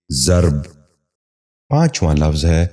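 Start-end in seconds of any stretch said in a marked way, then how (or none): 0.1-0.6 ضرب in one syllable, "zarb"; correct pronunciation. Shown as a demonstration. Teacher giving viewers the model, correct pronunciation. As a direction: say ضرب as zarb, no second vowel. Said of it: "ذہن نشین کر لیجئے".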